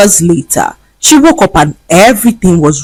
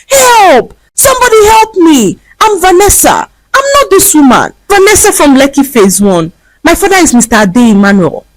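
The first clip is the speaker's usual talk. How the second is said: yelling for help; 11 semitones higher than usual. A narrator's reading. Vanessa begging strangers on the street, yelling for help. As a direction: shout to the crowd for rescue. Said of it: "began to yell out for help".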